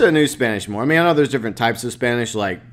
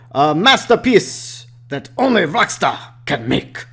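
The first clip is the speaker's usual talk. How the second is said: put-on German accent; 4 semitones higher than usual. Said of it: "Sorry. I'm getting carried away".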